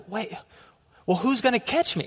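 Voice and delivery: high-pitched worried question; mock alarm. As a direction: act out nervous second thoughts. Retelling his alarm atop pole.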